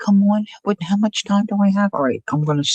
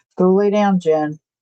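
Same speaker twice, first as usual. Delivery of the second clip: firm, stern voice. Telling a little puppy to go lay down: stern voice. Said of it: "I have to use a stern voice with my little puppy".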